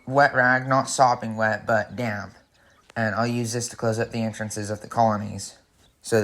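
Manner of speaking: muffled behind a respirator mask. Real, not acted. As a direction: speak through a respirator. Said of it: "kinda muffled voice".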